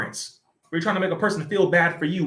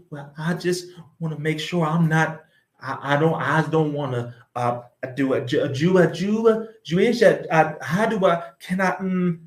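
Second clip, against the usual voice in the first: mock nervous, stammering hesitation. Mimicking the hosts, a lightly voiced fumbling stammer. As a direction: imitate a man tripping over his words. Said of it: "Talking like".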